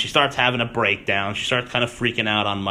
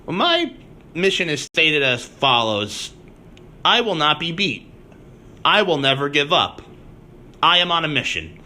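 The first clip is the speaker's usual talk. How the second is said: lightly hammed-up solemn vow in separate statements; mock grand declaration; 4 semitones higher than usual. Host quoting boss's mission statement to investors, mock grand declaration. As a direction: declare each vow with mock resolve, pausing between them.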